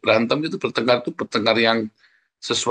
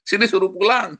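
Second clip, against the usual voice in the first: high-pitched summons, lightly acted; retold order; 9 semitones higher than usual. Parent sending child to fetch spouse, retold order. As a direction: imitate a parent ordering someone home.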